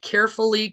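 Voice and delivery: carefully said with every syllable crisp; carefully enunciated. Shown as a demonstration. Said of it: "carefully pronouncing".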